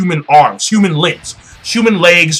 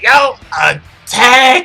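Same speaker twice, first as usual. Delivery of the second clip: slow, drawn-out higher yell; battle cry; 6 semitones higher, much slower than usual. Acted. Sanji leading the Marines into the attack, drawn-out shout. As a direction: stretch the attack call out like a charge.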